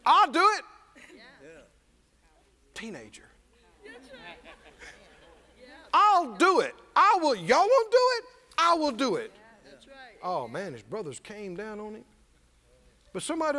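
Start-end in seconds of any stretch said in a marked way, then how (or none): 0.1-9.3 higher and louder, eager insistence; a teenager volunteering when no one will; bold teen. Acted. Preacher as young David eagerly insisting he will fight.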